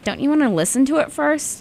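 quoting a friend. Retold or imitated. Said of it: "and she's like".

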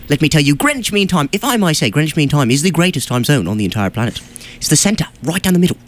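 emphatic put-on British accent; self-assured British lilt. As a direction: declare it like a proud Brit. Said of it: "slip back into the British accent".

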